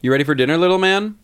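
put-on talking to a kid. Shown as a demonstration. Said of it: "That's how I talk to kids".

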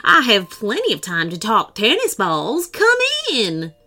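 a bright, welcoming character voice; suddenly delighted to chat; pleased host jumping at the topic; eager host. Acted. Voice grants entry, pleased.

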